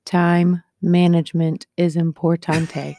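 loud, slow fake Spanish accent; mock Spanish accent. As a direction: say importante like a Spaniard.

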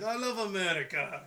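put-on light caricature Russian accent; mock Russian accent. Cartoon defector handing out candy, mock Russian accent. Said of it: "He's like".

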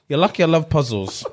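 judge line laughed out high; laughing judge. Retold or imitated. Retelling the judge's line while cracking up.

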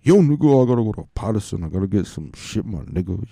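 loud opening call, then brother's street slang; imitating his brother. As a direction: hype your buddy up to ride out. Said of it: "this is how my brother talks".

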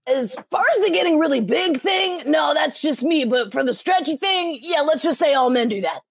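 bright boyish cartoon hero; Luffy voice. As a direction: toss it off like a cheeky kid. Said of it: "a line that was something like".

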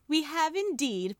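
high, slow, gloating; triumphant. A narrator's reading. Polly gloating over the captured witch, triumphant. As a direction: savour the victory. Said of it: "Polly said triumphantly".

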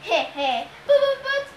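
high, stammering fake-sweet falsetto; nervous Grover. A narrator's reading. Captive Grover humours his Cyclops groom, gulping nervously. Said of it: "Grover gulped".

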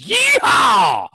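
high, loud mock cowboy shout; cowboy yeehaw. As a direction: holler yeehaw like a rodeo cowboy. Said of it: "pictures the entire U S as".

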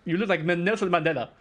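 playful South African impression; South African accent. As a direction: put on South African vowels, amused. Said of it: "came back, sounded ridiculous".

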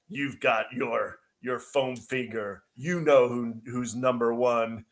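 slow, deliberate mock tribute; drawn-out ironic salute; beer-ad announcer parody. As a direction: imitate a commercial voice-over saluting a fan. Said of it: "Jordan would be like".

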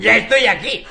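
quick triumphant call-out; shouting. Acted. Hedgehog calls to the hare at the top, shouting. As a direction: call out to the one arriving. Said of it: "el erizo le gritó".

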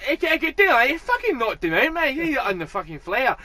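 hammed-up Glaswegian hype shout; excited Glaswegian shout. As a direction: bellow it like a pumped-up Glasgow drunk. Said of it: "he's like".

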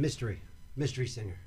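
hushed. Pretend. Dramatic whispered announcement.

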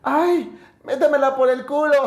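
high, sweet, polite falsetto; mock the girl's gentle request. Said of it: "como una manera gentil".

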